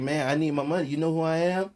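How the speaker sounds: mock-arrogant demand for payment; prideful attitude. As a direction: lean into the swagger like you're owed. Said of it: "my attitude would be like".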